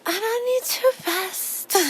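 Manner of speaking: soft, slow whimpery puppy voice; voicing the dog telling Mommy she needs rest, softly; voicing the sleepy dog. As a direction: plead sleepily like a tired little dog. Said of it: "she's just like".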